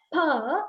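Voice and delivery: purr, lips closing then opening; sound demo. Shown as a demonstration. Teacher demonstrating the p sound, a clear purr. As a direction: purr said with a popped voiceless p. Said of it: "if I say".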